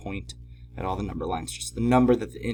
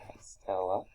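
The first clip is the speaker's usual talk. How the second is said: soft, low hello to a puppy; greeting a pet; 3 semitones lower, 8 dB quieter than usual. Real, not acted. Teacher to the puppy under the desk, soft greeting. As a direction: say hi softly to your dog.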